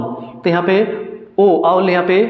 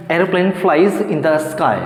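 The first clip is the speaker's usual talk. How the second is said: slow dictation; much slower than usual. Shown as a demonstration. Teacher dictates example sentence.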